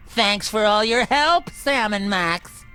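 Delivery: sinister. Acted. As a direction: draw out Sam and Max darkly. Slow sinister thanks.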